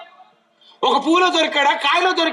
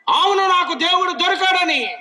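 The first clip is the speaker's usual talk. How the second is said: loud declaration; 5 semitones higher than usual. Retold or imitated. Preacher urges the crowd to shout they found God, loud and high. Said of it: "చెప్పు గట్టిగా".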